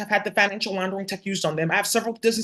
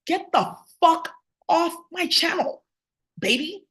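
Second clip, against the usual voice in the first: higher, slow, sing-song brush-off; mocking dismissal; 8 semitones higher, slower than usual. Real, not acted. Telling an unwanted viewer to leave, high and mocking. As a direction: drag it out, sweetly taunting. Ordering a viewer off her channel.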